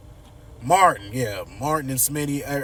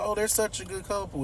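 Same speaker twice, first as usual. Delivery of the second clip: gushing Haley; 8 semitones higher, 4 dB quieter, faster than usual. Retold or imitated. Haley gushing about couple.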